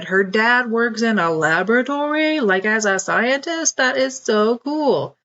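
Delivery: put-on a boy amazed by scientists; excited little boy voice.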